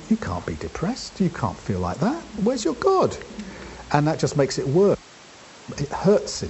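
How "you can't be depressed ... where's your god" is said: mocking taunt. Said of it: "people saying".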